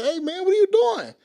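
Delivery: loud, high callout; retold challenge. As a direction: call out in protest as friends stepping in. Friends challenge the armed man.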